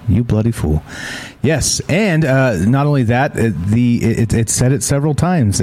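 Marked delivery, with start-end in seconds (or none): 0.1-0.8 duck imitation. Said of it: "and he says".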